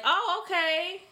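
lightly voicing herself excusing her boyfriend; mock excuse-making. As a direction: brush it off sweetly. Woman mimics her excuses.

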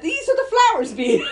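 put-on loud, high, talking to a bee like a child; hammed-up instructions to a bee; mock pointing out to a bee. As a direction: show the bee where the flowers are, up high and loud.

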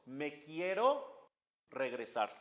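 softly plead, drawing out the words; small, halting request to go back; pleading soul. Acted. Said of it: "Y el alma le pide a Dios".

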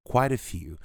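"Quite a few" run together as one word; linked American speech. Shown as a demonstration. Teacher shows how Americans join the words. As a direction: glide "Quite a few" into "quitafew". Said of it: "O americano normalmente junta isso".

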